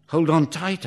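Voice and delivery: called out loud and high; shouting. Acted. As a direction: shout it over the engine. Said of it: "I shout".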